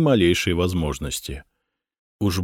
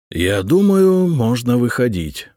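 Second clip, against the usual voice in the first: decisive; 4 semitones higher, 4 dB louder, slower than usual. A narrator's reading. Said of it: "решительно сказал Стефан".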